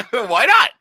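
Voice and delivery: high and loud through a laugh; asked while still laughing. Real, not acted. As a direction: laugh the words out. Laughing at his own point.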